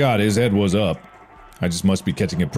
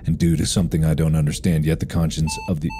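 reading aloud; faster than usual. A narrator's reading. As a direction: read the journal entry out evenly. Reads a game note aloud.

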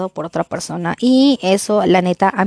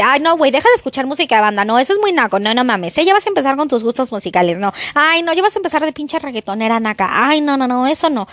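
mock scornful partner; 4 semitones higher, faster than usual. Partner mocking her music taste.

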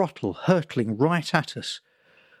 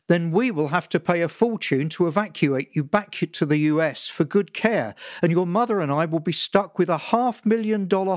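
ranting father; 4 semitones higher than usual. Acted. Father lecturing son about insurance, building tirade. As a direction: pile it on, gathering steam to a rant. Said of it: "He was picking up steam again".

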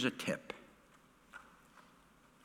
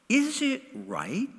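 slow question with "right" drawn out and rising; soft, slow question, "right" swung upward; stress on right; 10 semitones higher, 4 dB quieter, slower than usual. A narrator's reading. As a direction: lean on the word "right", lifting it high. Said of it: "Emphasis on the word right".

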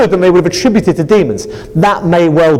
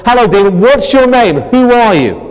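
loud, demanding hello demon; less polite; 3 semitones higher, 5 dB louder than usual. Shown as a demonstration. Exorcist confronting a demon, loud and demanding. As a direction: confront the demon, louder and blunt. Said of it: "not quite as politely as that".

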